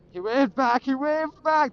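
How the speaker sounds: loud, high burst of relief; excited. Real, not acted. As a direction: cheer it out, delighted. Cop waved back, relieved.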